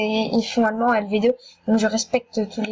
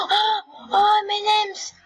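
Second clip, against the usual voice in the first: tag; 9 semitones higher, much slower than usual. Real, not acted. Exclamations de surprise en jeu.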